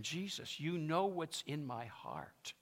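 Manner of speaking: soft, slow plea; gently acted, drawn-out appeal; Peter, broken. Peter baring his heart to Jesus, broken. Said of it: "He was broken".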